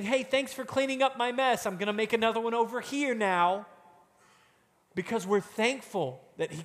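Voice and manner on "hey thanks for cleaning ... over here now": higher, careless, quick mock thanks; flippant voice. Preacher mocking a careless sinner, flippantly. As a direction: breeze through it, not sorry at all. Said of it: "instead of just saying".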